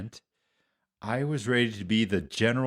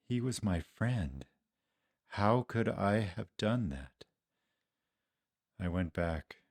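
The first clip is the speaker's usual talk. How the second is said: subdued, softer self-reproach; ashamed confession; 3 semitones lower, 5 dB quieter than usual. Acted. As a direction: confess it quietly, full of regret. Ashamed confession of denying his friend.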